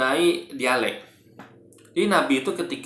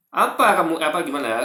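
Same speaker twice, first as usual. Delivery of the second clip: Madura accent; 4 semitones higher, 5 dB louder than usual. Shown as a demonstration. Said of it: "dialeknya contohnya kayak gini".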